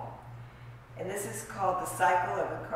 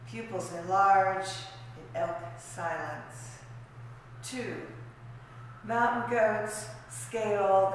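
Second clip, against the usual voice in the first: measured poetry recital with weighted phrases; poetry reading. Acted. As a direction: read it as verse, pausing between images. Reads own poem aloud.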